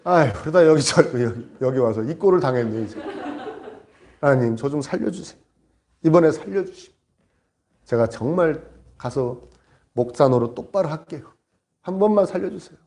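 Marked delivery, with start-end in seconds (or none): 4.2-12.8 low, halting mock plea; imitated pleading prayer. Stranded pastor begging God for rescue, imitated meek prayer. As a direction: bargain meekly, phrase by phrase. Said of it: "이 목사님이 기도를 하기 시작합니다".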